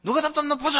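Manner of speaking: high-pitched mimicked brat taunt; defiant child. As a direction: throw it out like a stubborn kid.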